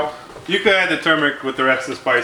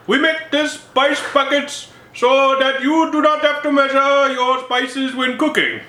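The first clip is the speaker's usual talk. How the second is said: higher, slow mock Indian accent; 10 semitones higher, slower than usual. Spice stand vendor selling spice buckets, mock Indian accent. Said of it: "maybe I will".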